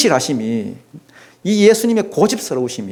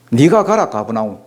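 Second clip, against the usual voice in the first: 영화 대사 흉내; 6 semitones lower than usual. Retold or imitated. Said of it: "이런 거 있잖아요".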